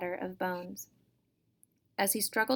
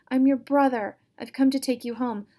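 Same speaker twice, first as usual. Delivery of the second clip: louder, higher insistent plea; 5 semitones higher, 8 dB louder than usual. Acted. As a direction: make her hear who you are. Brother pleads with sister.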